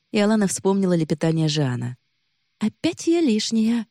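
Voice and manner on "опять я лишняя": playful burglar whisper. A narrator's reading. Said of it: "игриво прошептала Хелке".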